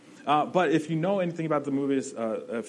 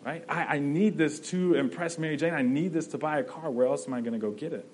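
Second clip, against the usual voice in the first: higher and louder, pleading and frantic; panicked desperation; 4 semitones higher, 3 dB louder than usual. Retold or imitated. Peter begging the wrestling promoter for the money, desperate. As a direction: voice climbing in a mock panic. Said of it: "just panic and desperation".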